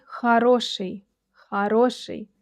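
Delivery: хороший said kha-RO-shiy; хороший, reducing the first o to a; unstressed o as a. Shown as a demonstration. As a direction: say хороший with a first vowel a and stressed second o. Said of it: "Don't forget about the unstressed O".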